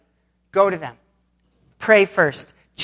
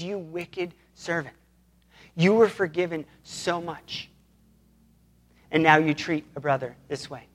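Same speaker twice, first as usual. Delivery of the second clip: quiet stern rebuke; 3 semitones lower, 6 dB quieter than usual. Retold or imitated. Master rebuking the servant he forgave, quiet and stern.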